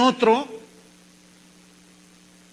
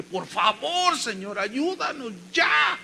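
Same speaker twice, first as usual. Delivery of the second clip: imploring cry, drawn out slowly; desperate plea, retold; 3 semitones higher, slower than usual. Son begging the Lord for help, retold desperate plea. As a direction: act out begging God, stretching the last words.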